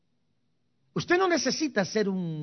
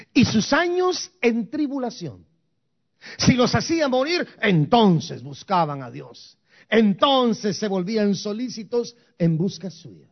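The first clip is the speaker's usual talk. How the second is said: slow emphatic reading; 2 semitones higher, 5 dB louder than usual. Real, not acted. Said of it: "la voy a leer despacio".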